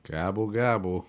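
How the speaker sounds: gobbling turkey voice. Acted. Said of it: "a bad impression of a turkey".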